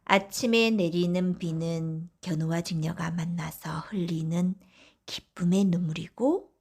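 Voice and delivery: plain reading voice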